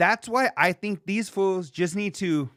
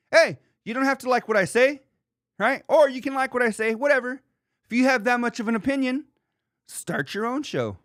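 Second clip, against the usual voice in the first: imitating Covino; 9 semitones higher than usual. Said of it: "Covino has said it the whole time".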